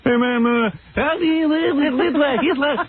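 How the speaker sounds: spout it like a Brooklyn Hasid ranting; imitating a Brooklyn Hasid.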